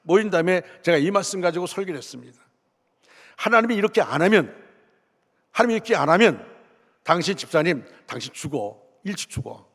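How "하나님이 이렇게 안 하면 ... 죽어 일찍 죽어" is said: forceful warning. Retold or imitated. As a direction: press hard on the warning like a stern pastor. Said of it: "제가 강하게, 강하게 말씀을 전했습니다". (강하게 경고하듯)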